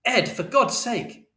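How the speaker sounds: high, slow, stretched-out plea; exasperated shout. A narrator's reading. Mother trying to stop Ed, high slow shout. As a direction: cry out his name in protest. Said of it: "And Mother shouted".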